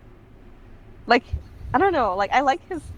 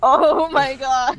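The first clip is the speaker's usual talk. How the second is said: acted amazement; 4 semitones higher, 7 dB louder, much slower than usual. Acting out her stunned reaction.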